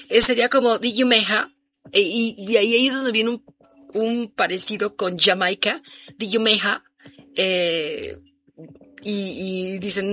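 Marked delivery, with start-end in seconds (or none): 0.8-1.5 British accent. Shown as a demonstration. Explaining a song-title joke to listeners, in a light British accent. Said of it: "si lo dijeran con cierto acento británico". 6.2-6.8 British accent. Shown as a demonstration. Explaining a song-title joke to listeners, in a light British accent. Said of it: "si lo dijeran con cierto acento británico".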